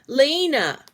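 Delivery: high parrot echo of its name; a bird repeating its own name. A narrator's reading. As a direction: squawk the name back. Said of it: "repeated Lena".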